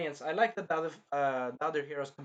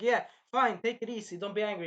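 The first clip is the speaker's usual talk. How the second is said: placating servant; 4 semitones higher than usual. Retold or imitated. Voices servant girl soothing her friend.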